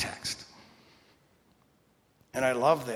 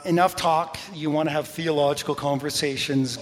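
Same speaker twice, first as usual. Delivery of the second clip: louder, no-nonsense; firm rebuke; 5 dB louder than usual. Acted. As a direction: cut them off firmly. Jesus rebuking disciples.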